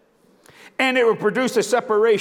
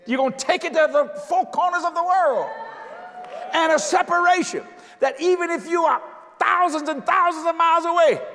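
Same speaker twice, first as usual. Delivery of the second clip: fervent preaching; 5 semitones higher than usual. Acted. Preacher rising in fervour.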